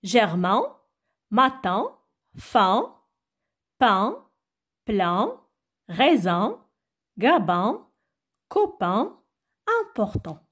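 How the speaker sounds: one word at a time, pauses between; separate, carefully spaced words; reading a word list. Shown as a demonstration. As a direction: read out the words as a teacher's list. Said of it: "je vais les lire".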